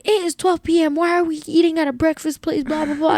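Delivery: mock a fuming brother's whine of protest. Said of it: "My brother was fuming".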